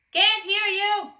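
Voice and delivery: slow, loud, high thunder. A narrator's reading. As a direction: roar it slowly. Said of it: "thundered the grocer".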